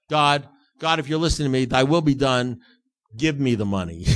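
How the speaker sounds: a loud, hammed-up selfish prayer; mock prayer. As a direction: pray loudly, bargaining with God. Mock prayer for what he wants.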